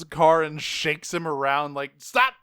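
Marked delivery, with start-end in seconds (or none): 2.0-2.3 high, loud mock yell; sharp burst of imitated outrage; retold angry shout. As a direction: yell it as if shaking someone. Retold angry shaking of the driver.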